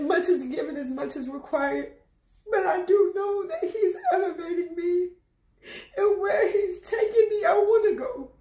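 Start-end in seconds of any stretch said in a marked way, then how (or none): 2.5-8.3 tearful. Real, not acted. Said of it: "I'm not crying because I'm sad".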